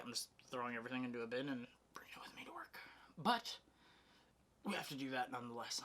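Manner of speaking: rushed and out of breath; panting words after running about. Real, not acted. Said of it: "I'm, like, really out of breath".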